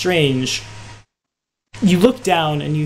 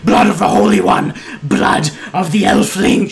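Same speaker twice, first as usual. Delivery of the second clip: rough, loud goblin war cry; howling, screaming hobgoblin; 4 semitones higher, 5 dB louder than usual. Acted. Hobgoblin bursting in with swords drawn, howling. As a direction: scream it harshly like a bloodthirsty monster. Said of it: "just howling and screaming".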